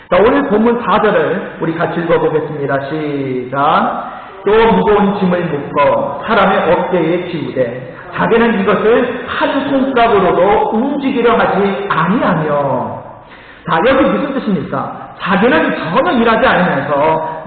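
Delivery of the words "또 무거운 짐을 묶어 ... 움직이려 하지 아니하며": leading the congregation through the verse; scripture reading. Acted. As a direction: read the verse aloud together. Congregation reads scripture aloud.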